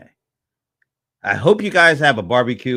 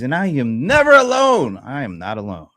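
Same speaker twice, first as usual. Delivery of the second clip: odd delivery. Real, not acted. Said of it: "I don't know why I'm talking like this".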